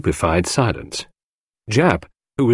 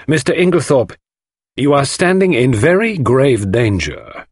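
Poirot, grave warning; 5 semitones higher, 4 dB louder than usual. Acted. Poirot warns the uncomprehending suspect of danger, gravely. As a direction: warn him with solemn emphasis.

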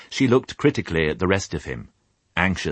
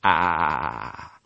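soft sheep murmur. Acted. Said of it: "they all said softly".

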